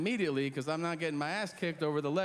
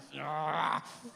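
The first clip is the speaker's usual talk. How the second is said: wordless growl of mock rage; imitated rage growl. Comedian showing rage that dries the throat, wordless mock-rage growl. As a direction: act out rage with a wordless noise. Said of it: "real rage".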